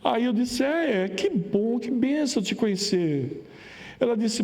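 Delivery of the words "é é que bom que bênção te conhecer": slow, drawn-out polite reply; polite hesitation. Retold or imitated. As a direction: stall politely, unsure what to say. Resposta educada e sem jeito. (lento e hesitante, educado)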